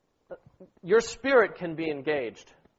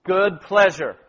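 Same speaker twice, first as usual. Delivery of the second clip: PLEASURE hit louder in "good pleasure"; emphasized words; 6 dB louder, slower than usual. Shown as a demonstration. Leader showing sisters which words to emphasize, stressing "good pleasure". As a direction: lean firmly on "good pleasure". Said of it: "emphasize the words".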